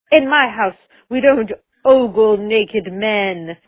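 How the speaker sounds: slow, stern grandma voice with an odd put-on tone; prim grandma. Grandma lecturing Jen about ogling naked men, slow and stern. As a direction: lay down the house rules like a pious grandma. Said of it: "she's like".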